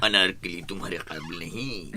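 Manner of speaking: booming emperor's command; lightly voiced stern emperor; Akbar's voice. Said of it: "वो आवाज अकबर की".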